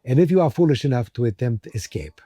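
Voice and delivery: put-on a faint, half-sure Russian accent on a guard's speech; lightly put-on Russian accent, stern guard; attempted Russian accent. Guard lectures prisoners in a weak Russian accent. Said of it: "I'm not even sure if this is a Russian accent".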